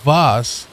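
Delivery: "Was" with a v sound at the start; German "Was", starting like "vase"; German pronunciation. Shown as a demonstration. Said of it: "It's W A S if it's German".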